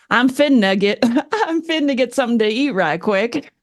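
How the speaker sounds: Texan, "finna" run together as one word; Texas accent. Shown as a demonstration. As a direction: say it like a Texan, words jumbled. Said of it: "jumble their words together".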